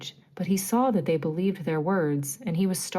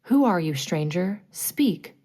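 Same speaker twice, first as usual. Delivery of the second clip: demanding. Acted. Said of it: "Hook demanded".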